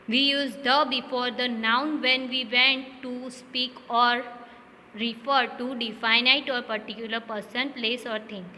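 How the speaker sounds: slow, deliberate reading of the rule. Shown as a demonstration. Teacher reading the grammar rule to the class, slowly. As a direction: spell out the rule slowly for students.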